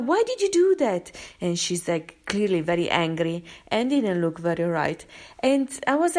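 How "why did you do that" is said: much higher, louder challenge; retold confrontation. Confronting the woman who kicked the dog, shocked and loud. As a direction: demand an answer, shocked.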